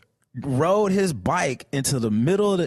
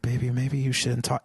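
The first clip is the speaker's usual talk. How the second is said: lightly voiced gentle girlfriend; soft, low imitation of a sweet plea; gently coax, a touch lowered; 7 semitones lower, 4 dB quieter than usual. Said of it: "she's sweet".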